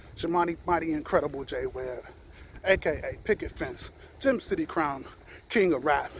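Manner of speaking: winded from walking laps; talking while catching breath. Real, not acted. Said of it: "Whew, I'm out of breath".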